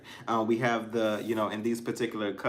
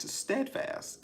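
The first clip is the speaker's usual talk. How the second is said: whispered word; 5 dB quieter than usual. Real, not acted. Restating the word softly.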